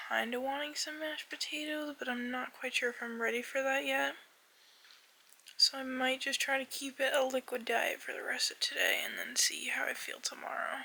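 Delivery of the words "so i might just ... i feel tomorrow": whispering. Real, not acted.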